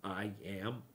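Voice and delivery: slow, stretched, oddly reversed-sounding words; backwards speech. Shown as a demonstration. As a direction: talk like you're played in reverse. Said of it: "Sounds like I'm talking backwards".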